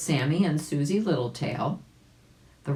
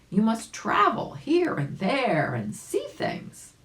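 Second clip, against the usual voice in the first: slow, lightly voiced firm doctor; a hint of a doctor laying down orders; 7 semitones higher, slower than usual. Doctor telling the rabbit to travel, slow and firm. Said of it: "said the doctor".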